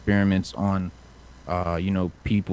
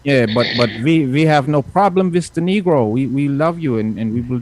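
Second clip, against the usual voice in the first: a hint of a higher, smooth-talking dictator; Hitler voice; 4 semitones higher than usual. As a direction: sweet-talk him like a tyrant luring a soldier, only lightly voiced. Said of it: "but he says".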